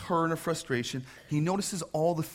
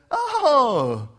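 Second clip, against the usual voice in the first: much higher, louder fake-polite sarcasm; sarcastic; 7 semitones higher, 9 dB louder, slower than usual. Preacher imagining himself answering Jesus with loud high sarcasm. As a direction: drip with sarcastic thanks. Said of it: "I would have said".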